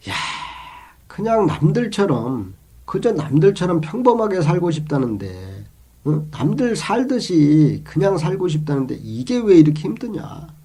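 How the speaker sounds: retold grumbling. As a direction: imitate someone complaining about life. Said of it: "뭐 이런 푸념을 많이 들어봅니다".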